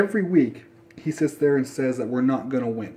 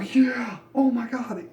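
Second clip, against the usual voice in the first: mock celebration; 10 semitones higher, slower than usual. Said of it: "Celebrate. Go".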